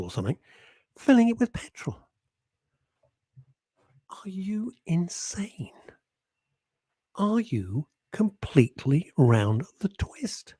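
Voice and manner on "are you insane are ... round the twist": a breathless horrified whisper; incredulous whisper. Real, not acted. Host aghast at listeners hoarding petrol, whispered. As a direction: whisper it, appalled and slow.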